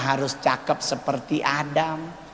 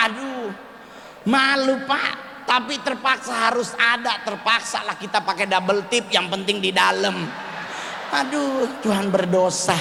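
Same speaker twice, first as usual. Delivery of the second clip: mock mortified wail; 6 semitones higher than usual. Continued mortified complaint.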